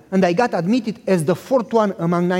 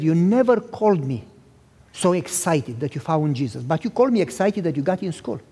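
quiet rebuke; 4 semitones lower, 4 dB quieter than usual. Retold or imitated. Father gently rebukes.

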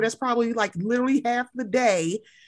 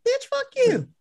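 exasperated outburst; 10 semitones higher than usual. Real, not acted. Outburst at Lawrence's excuse.

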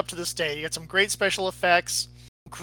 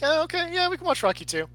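unenthused shrug; 10 semitones higher than usual. Retold or imitated. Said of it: "kind of that one going".

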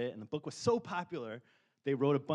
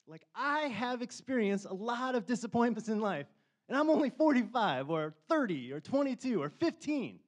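impassioned plea; 7 semitones higher, 5 dB louder than usual. Pretend. Preacher asking John, higher, louder and urgent. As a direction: cry out the question with rising urgency. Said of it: "it's like we asked him".

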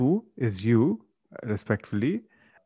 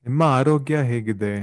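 Kannada accent; faster than usual. Shown as a demonstration. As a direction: clear native Kannada. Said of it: "let's go through the entire episode".

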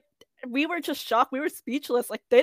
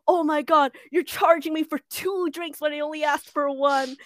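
raised, higher-pitched mock outrage; mildly acted customer complaint; retold screaming customer; 4 semitones higher than usual. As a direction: imitate an outraged customer, half-strength. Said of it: "she started screaming at me".

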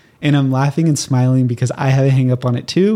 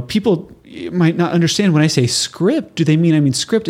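overthinking creator; 4 semitones higher than usual. Retold or imitated. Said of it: "people overcomplicate the process".

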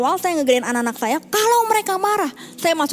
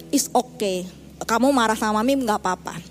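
lower, softened motherly voice; gentle reassurance; 5 semitones lower, 3 dB quieter than usual. Retold or imitated. Mother telling her child anger at mami is okay, gentle reassurance.

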